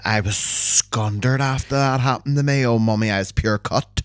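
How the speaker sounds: broad Belfast woman voice; mortified local lass; Belfast accent. Shown as a demonstration. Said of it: "You know what I mean?".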